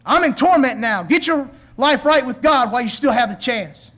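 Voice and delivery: preacher imitating a desperate plea; mock terrified warning. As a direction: warn the living as the dead man, mildly alarmed. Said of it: "the terrified voice of the deceased".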